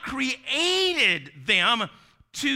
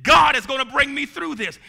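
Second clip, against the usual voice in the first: rising shout; 5 semitones higher, 6 dB louder than usual. Shown as a demonstration. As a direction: shout it louder with faith. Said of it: "you've got to say".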